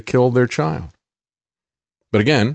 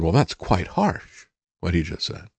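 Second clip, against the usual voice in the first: mock British provost; 5 semitones lower, 6 dB quieter than usual. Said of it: "she sounds like Donald Trump".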